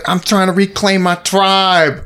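slow, high mock Afrikaans accent; drawn-out imitation of an Afrikaans accent. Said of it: "an Afrikaans accent the whole time".

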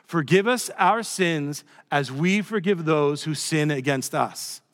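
slow unison recitation by congregation; man and woman together. Real, not acted. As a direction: everyone reads it aloud together, slowly. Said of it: "Let's say that".

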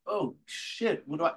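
mock panicked gasp; alarmed. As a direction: caught off guard mid-turn. Panic at the ramp.

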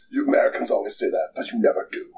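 hushed, breathy mock menace; a hushed imitation of a smug foreigner; whispered villain quote. Villain quote retold, unvoiced.

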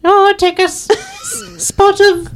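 high, halting stage-Irish voice; mock Irish accent. Improvising Irish clichés for laughs, mock Irish accent.

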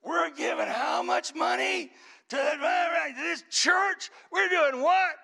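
high, loud, slow outraged shout; husband shouting in disbelief at the church letter; furious shout. Retold or imitated. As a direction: bellow the question as if the letter is an insult. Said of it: "He was furious".

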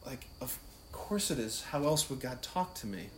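softly voiced, matter-of-fact reply; Joan of Arc. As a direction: answer the accusers quietly, as if obvious. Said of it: "She's like".

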